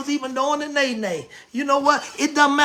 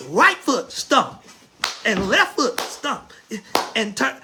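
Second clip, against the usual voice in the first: slow dance call; 3 semitones lower, slower than usual. Acted. Calling line-dance steps.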